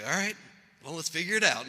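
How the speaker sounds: usual speaking voice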